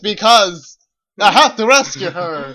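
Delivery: loud, overdramatic reading; hammy stage actor. Retold or imitated. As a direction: ham up the heroic vow. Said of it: "he didn't even finish that sentence".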